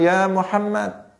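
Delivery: high, slow call across the crowd; mock shout of Ya Muhammad, voice pitched high; a rough nomad hailing the Prophet loudly; loud Bedouin call. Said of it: "orang Badui itu dengan suara keras".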